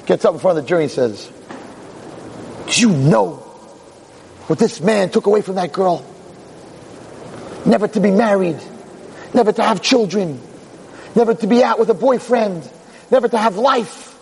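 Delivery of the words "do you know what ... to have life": measured appeal, climbing in pitch phrase by phrase; impassioned summation. Acted. Little DA appealing to the jury, impassioned and building. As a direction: build solemnly with a pause after each loss. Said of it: "he's feeling a little, little energized".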